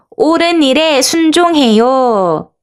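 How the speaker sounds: mild call-out. Shown as a demonstration. Teacher leads children in shouting together, slow mild call-out. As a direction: call it out slowly, drawing out the words. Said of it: "같이 큰 소리로 외쳐볼까요".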